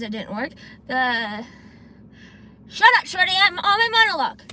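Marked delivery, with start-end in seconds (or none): 2.7-4.4 mock scolding. Playfully scolding a chatter on stream.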